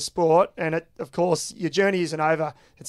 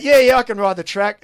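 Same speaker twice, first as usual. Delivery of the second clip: louder, mild mock yell back; retold yell; 6 dB louder than usual. Dutch mate answers the question about riding the track, mildly yelling. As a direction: imitate yelling a reply from off the phone. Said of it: "you've yelled out".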